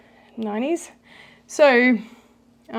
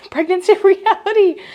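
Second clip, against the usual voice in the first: laughing; 10 semitones higher, 10 dB louder than usual. Real, not acted. Laughing at own hiccups.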